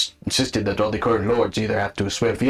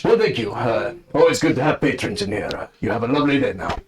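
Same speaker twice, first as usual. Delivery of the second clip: slightly louder voice. Acted. Shopkeeper thanking departing patrons, slightly louder voice. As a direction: open a little louder, then settle. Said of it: "slightly louder voice".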